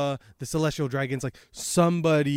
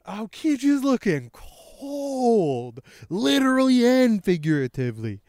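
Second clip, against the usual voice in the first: excited hype; 7 semitones higher, 4 dB louder than usual. Real, not acted. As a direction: stretch it out with thrilled emphasis. Hyped reaction to the panel.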